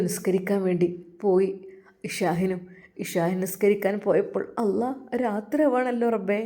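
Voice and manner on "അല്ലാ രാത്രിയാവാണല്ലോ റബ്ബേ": anguished lament. Acted. Grieving son fears for mother.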